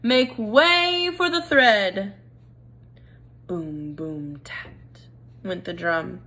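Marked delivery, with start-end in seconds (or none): 0.0-2.1 slow drawn-out call; a lightly voiced herald mouse. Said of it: "cried a mouse". 3.5-5.1 softer, whispered boom boom tat; whispered drum. Acted.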